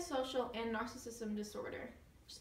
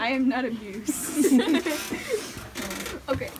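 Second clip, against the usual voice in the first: mock stern; 13 dB louder than usual. Real, not acted. Actor pretending not to be amused, laughing. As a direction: fake stern then crack up.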